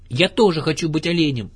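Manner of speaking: high, loud eager little one; excited shout. A narrator's reading. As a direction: cry out wanting to join in. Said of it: "закричал Ру".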